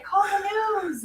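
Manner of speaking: high, slow mock mom demand; imitating mom, high and drawn out; mom's urgent order. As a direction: drag it out like a bossy mom. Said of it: "So my mom's like".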